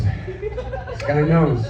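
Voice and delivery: knows stretched very slow through a laugh; slow knowing chuckle on This guy knows; drawn out, laughing. Shown as a demonstration.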